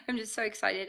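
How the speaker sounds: breathy whisper of delight; whispering, giddy with excitement; excited whisper. Real, not acted. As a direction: whisper it like a secret thrill. Bubbling over with excitement.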